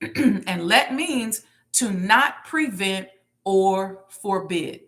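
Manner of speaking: very slow, let stressed. Shown as a demonstration. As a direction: let drawn out and weighted. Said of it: "The emphasis on the word let".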